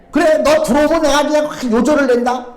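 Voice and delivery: mildly imitated angry mother; mother's threat. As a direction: threaten a runaway child, lightly acted. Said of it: "우리 어머니는 막 나를 잡는다고".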